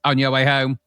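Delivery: flat machine announcement; robotic machine voice. Retold or imitated. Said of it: "in this kind of deaf robotic voice".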